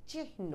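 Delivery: চিহ্ন softly as chih-no; চিহ্ন with an audible h ahead of the n; h before n. Shown as a demonstration. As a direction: breathe the h in চিহ্ন, then say no. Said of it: "এরকম হ বইলে পরে ন".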